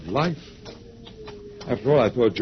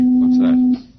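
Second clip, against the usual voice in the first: high, loud alarm; loud startled question; 14 semitones higher, 8 dB louder than usual. Acted. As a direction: jump at the noise.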